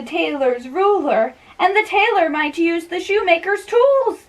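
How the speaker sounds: high, rising bewildered rant; high comic servant. Acted. Servant puzzling over the list, high comic voice. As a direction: play the servant's confusion big and high.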